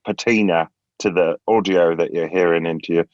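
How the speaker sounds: plummy upper-class British English voice; posh British accent. Pretend. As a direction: sound high class, a bit grand, British. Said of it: "That sounds pretty high class".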